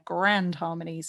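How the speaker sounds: "grand" starts with a firm G and a rolled-through R; crisp gr in grand. Shown as a demonstration. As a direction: bite the "gr" of "grand". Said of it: "have that G and have that R in there".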